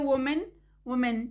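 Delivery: वुमेन with a full "men" ending; second syllable of वुमेन like "men"; common mispronunciation. Shown as a demonstration. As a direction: say वुमेन as wo-MEN, open "e" at the end. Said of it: "इसका जो pronounce हम करते हैं".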